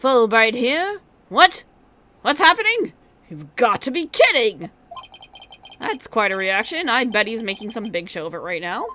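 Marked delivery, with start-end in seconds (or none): 1.3-4.7 surprised. Acted. Shocked reaction to news.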